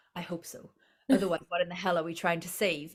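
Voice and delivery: corny, hammy, cheesy movie-hero delivery. Retelling a movie line: cheesy Ben Affleck voice. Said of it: "in a really cheesy Ben Affleck voice".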